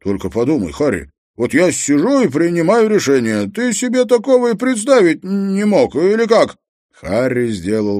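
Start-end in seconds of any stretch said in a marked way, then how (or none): 0.0-6.6 high, loud cranky voice, savouring it; slow gloating. A narrator's reading. Treska relishing his power over Harry, slow and gloating. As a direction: needle him, pitch climbing way up. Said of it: "потом раздалось медленное".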